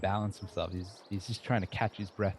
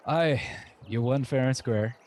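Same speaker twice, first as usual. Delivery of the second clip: orc voice; 3 semitones higher, 4 dB louder than usual. Acted. Panting orc congratulating winner.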